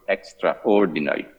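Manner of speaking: "extraordinary" repeated with deliberate emphasis; stress on extraordinary. Real, not acted. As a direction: repeat "extraordinary" firmly, ending on a fall. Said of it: "and I stress this word".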